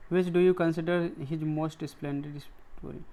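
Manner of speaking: very slow, word by word; slow example reading. Shown as a demonstration. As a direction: read the example sentence slowly for the class. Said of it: "कुछ उदाहरण दिया गया है".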